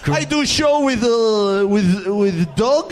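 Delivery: hammed-up Russian, broken English; mock Russian accent, slow and deadpan; Arshavin impression. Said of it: "I could do Arshavin".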